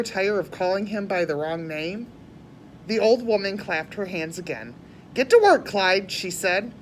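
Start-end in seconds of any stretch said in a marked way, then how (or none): 5.1-6.1 ordering. Acted. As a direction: bark the order at him. Old lady ordering.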